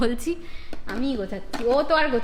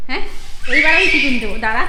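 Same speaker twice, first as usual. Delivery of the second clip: put-on louder playful threat to the child; hammed-up parent threat; mock scolding; 4 dB louder, faster than usual. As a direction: pretend to be cross, half-laughing.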